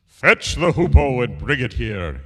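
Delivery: loud, commanding king; angry shout. Acted. King orders his servants, shouting angrily. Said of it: "he shouted to his servants".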